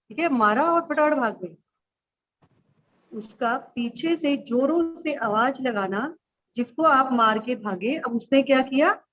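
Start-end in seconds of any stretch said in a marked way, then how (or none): 3.1-6.2 slow, measured verse with pauses between phrases; poem recitation. Acted. Teacher reciting her childhood sibling poem to pupils, slow recitation. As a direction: recite line by line, drawing out the words.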